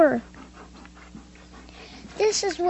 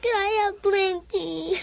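crying. Real, not acted. Child repeats request, weeping.

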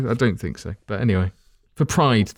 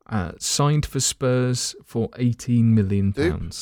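slow put-on Irish accent; slower than usual. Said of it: "I did the wrong Irish accent".

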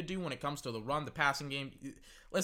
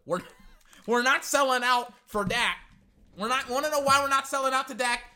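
Belichick voice; 5 semitones higher, 5 dB louder than usual. Retold or imitated. Belichick voice over wind.

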